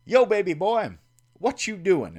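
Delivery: imitating Terry. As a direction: sing out the late-night call like the friend. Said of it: "call me and say things like".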